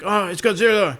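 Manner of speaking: high, loud panicked quote; high mock panic. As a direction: squeal it like a scared extra. Quoting a movie scene.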